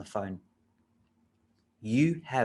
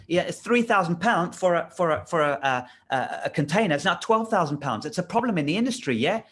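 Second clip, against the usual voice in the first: lightly put-on English voice, pitched up; attempted English accent; 4 semitones higher, 3 dB louder than usual. Caller chatting to a LinkedIn contact, attempted English accent. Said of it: "put an English accent".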